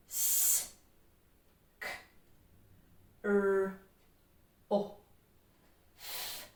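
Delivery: S, k, r, o, f as separate sounds; sounding out. Shown as a demonstration. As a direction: say S, k, r, o, f one by one, long pauses between. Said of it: "say the sounds at home".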